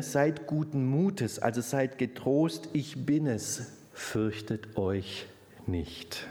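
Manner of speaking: calm the frightened disciples slowly; tender reassurance. Retold or imitated. Jesus's words, slow and tender.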